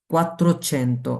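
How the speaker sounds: teacher drawing out "quattrocento"; very slow. Shown as a demonstration. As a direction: stretch "quattrocento" out syllable by syllable. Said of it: "এভাবে আমরা কি বলতে হবে".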